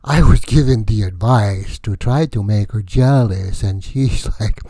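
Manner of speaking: hammed-up comic vampire count; lightly voiced comic Count Vlad; Count Vlad character. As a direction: play the wacky vampire count, boastful and loose. Held Count Vlad comedy character voice.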